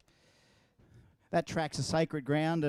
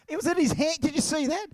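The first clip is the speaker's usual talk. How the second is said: disbelief; 10 semitones higher than usual. Real, not acted. Reacting to the dropped catch.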